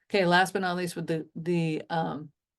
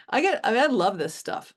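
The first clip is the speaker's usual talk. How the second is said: excited burst, higher and louder at first; 4 semitones higher, 3 dB louder than usual. Real, not acted. Teacher showing how much they love business, excited. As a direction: gush with real enthusiasm. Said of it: "as you can see, I get excited".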